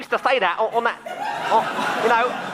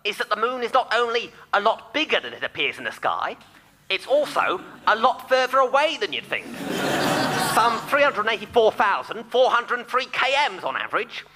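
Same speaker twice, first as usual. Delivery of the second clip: put-on old speech synthesizer. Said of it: "Brian O'Green on the phone".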